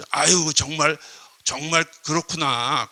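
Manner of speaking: sympathetic sigh of recognition, acted; empathetic listener. Showing an angry person you understand, empathetic. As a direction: take their feeling fully on board. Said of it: "공감하는 거죠".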